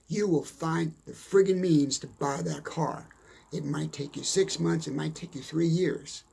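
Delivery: ordinary talk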